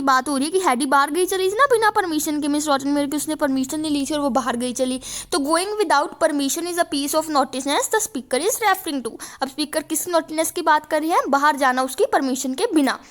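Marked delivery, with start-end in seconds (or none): 5.4-9.1 slow, careful reading of the text line; slow dictation read. Shown as a demonstration. Teacher to students, reading the passage slowly. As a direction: read it out slowly for the class to copy.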